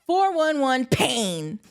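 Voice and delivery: drawn-out Miami "pain"; Miami accent. Shown as a demonstration. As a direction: stretch "four one one pain" slowly, Miami style. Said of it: "I said that in every single commercial".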